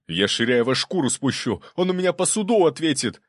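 rising to a loud, high angry threat; furious, swearing revenge. A narrator's reading. Prince raging at the swindler.

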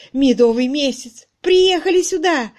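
overjoyed for the newlyweds; восторженно; thrilled exclaiming. Acted. Charwoman thrilled at honeymoon.

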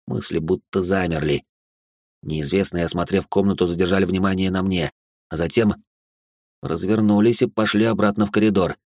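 ordinary delivery

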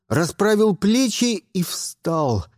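plain reading voice

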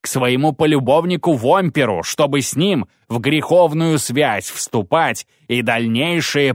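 a zealot damning the witch; accusing priest. Acted. Priest accuses the girl of witchcraft before the crowd, fervent.

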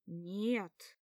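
guy shouting no; sharp shout. A narrator's reading. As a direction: shout her down. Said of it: "мой крик".

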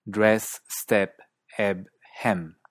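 DRESS, STEP, EBB, HEM with standard US-British 'eh'; standard US-British accent. Shown as a demonstration. Teacher listing example words, standard US-British open E. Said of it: "más a nuestra E de perro".

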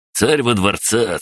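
high mocking chant, slow and drawn out; прокричал. A narrator's reading. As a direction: call it out like a taunting jeer. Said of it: "вдруг прокричал Олег". (дразнящий выкрик, медленно)

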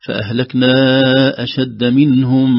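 slow, light ب and heavy ط; careful recitation. Shown as a demonstration. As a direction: keep the ب thin before the ط. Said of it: "تبقى الباء برقتها".

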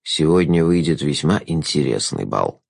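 silky courtly trickster; sly jester. A narrator's reading. Jester's line.

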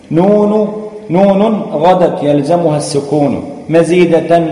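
measured, chanted verse reading; poem recitation. Acted. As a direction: recite the rhyming verses deliberately to students. Recites didactic tajweed poem.

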